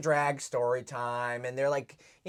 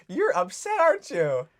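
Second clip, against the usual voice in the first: teasing; 4 semitones higher, 4 dB louder than usual. Real, not acted. Teasing upset co-host.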